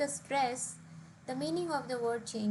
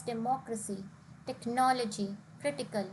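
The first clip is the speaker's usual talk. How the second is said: "democracy, technology, critical" as de-MOC-racy, tech-NOL-ogy, CRIT-ical; "democracy, technology, critical", each weighted three syllables from the end; stress on third-last syllable; 3 semitones lower than usual. Shown as a demonstration. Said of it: "the stress here is on the third last syllable".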